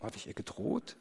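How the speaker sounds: incredulous whispered question; a stunned whisper to the congregation. Retold or imitated. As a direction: breathe it out in disbelief. Stunned aside to listeners.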